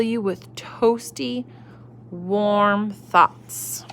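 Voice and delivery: whispered tender words. Acted. Mother soothing child.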